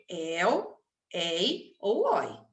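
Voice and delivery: slow, deliberate ei ou oi; slow diphthongs. Shown as a demonstration. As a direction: lay out each diphthong carefully. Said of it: "terminarem em ditongo aberto". ("ei ou oi" bem devagar e claro)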